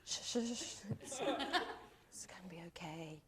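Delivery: very soft, breath-only reassurance; mock-tender whispered comfort. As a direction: hush and soothe in a whisper. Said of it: "I'm kind of laughing, going".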